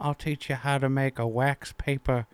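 lightly voiced Southern character; Darlene. Darlene offering a lesson, Southern character. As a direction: offer it in a homespun put-on twang. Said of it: "I'm Darlene".

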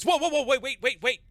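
high, loud urgent stopping; alarmed. Acted. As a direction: yelp to halt the others mid-lift. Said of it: "she goes".

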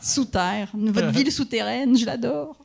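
put-on gushing French tourist accent; mock French accent. French visitor adoring the underground city, in a mock French accent. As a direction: lightly imitate an enthused visitor from France.

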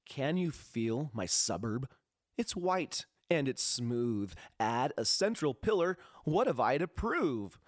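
slow, deliberate poetry recital; poem reading. Acted. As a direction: read it like a spoken-word poem. Reads his own poem.

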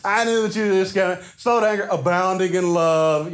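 mock the praise back at God; snarky. Jonah snarkily repeating God's kindness. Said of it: "that little snarkiness in there".

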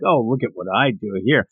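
dumbing it down. Retold or imitated. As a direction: imitate someone patronizing a beginner. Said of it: "dumbing it down for her".

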